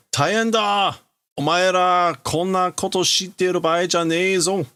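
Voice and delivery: high, loud urgent warning; alarmed character shout. Acted. Character barging in warns friends, high alarmed shout. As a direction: yell the alarm at the group.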